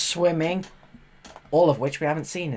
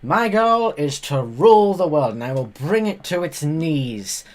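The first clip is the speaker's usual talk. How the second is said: mildly louder mock villain boast; hint of a gloating movie villain; supervillain; 4 dB louder than usual. Vlogger parodying a child's ambition, a touch of supervillain boast. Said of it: "Said every supervillain".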